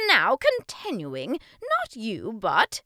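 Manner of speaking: loud, high, slow prompting; teaching king. Acted. King prompts boy for next syllable, booming. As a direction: lead the pupil loudly to the answer.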